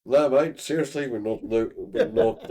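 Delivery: joking Australian "mate" voice; mock Australian accent. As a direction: put on an Australian accent to tease. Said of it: "I can't do a Norwegian accent".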